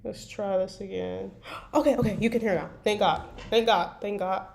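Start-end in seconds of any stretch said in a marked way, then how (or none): 1.7-4.5 relieved excitement. Real, not acted. Stream audio finally working, relief.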